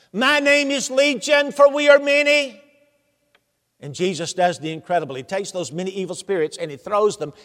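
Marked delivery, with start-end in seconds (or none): 0.1-2.6 a lightly voiced demon, high and louder. Demon answers Jesus through the man, in a light demon voice. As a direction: let the many spirits speak through him.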